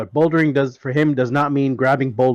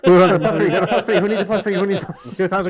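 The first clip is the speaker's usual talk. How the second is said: auctioneer voice; 3 semitones higher, 3 dB louder, faster than usual. Pretend. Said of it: "a proper, uh, auctioneer voice".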